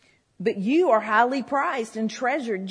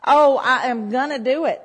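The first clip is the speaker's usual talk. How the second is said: louder gritted self-push, I am gonna do it; forced resolve; 2 semitones higher, 7 dB louder than usual. Retold or imitated. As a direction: force yourself to promise. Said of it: "I'm gonna make myself do it".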